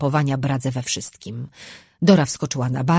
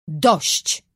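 yelled. A narrator's reading. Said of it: "wrzasnął czart".

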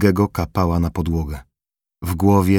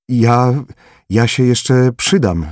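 higher, louder, slow frightened stammer; stammering plea; 6 semitones higher, 5 dB louder, slower than usual. Acted. Formela pleading with gun pointed at him, frightened stammer. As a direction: beg for your life, tripping on the words. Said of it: "wyjąkał Kaszub".

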